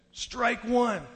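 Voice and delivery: high-pitched umpire's strike call. Retold or imitated. Umpire's call in retold game.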